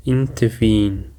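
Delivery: "Intervene" with the weight on -VENE; stress on last syllable. Shown as a demonstration. Teacher demonstrates where the stress falls, "Intervene" stressed on last syllable. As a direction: model "Intervene" as in-ter-VENE. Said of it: "the stress is on the last syllable".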